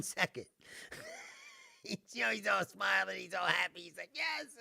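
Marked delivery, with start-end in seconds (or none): 4.1-4.5 mock cheer. Launcher's cheer, retold.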